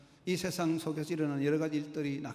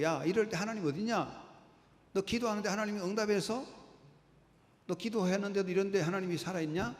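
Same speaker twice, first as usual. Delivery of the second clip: higher, taunting question from an unbeliever; mocking scoffer; 5 semitones higher than usual. Lightly voiced unbelievers taunting the believer, mocking. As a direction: sneer at the believer's faith. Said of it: "사람들은 계속 물어요".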